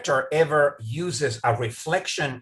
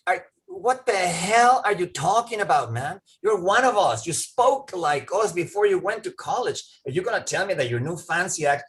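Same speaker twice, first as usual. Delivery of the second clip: higher-pitched mock indignation; indignant challenge; 5 semitones higher than usual. Townspeople ridiculing one of their own, mock indignant. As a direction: take the upstart to task, acting offended. Acted townspeople scolding returning student.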